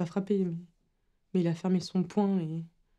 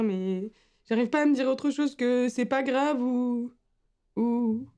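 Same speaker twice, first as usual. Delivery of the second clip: higher, upset voice begging for help; distressed pleading; 4 semitones higher than usual. Acted. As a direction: plead anxiously, close to tears. Distraught plea to mother for callback.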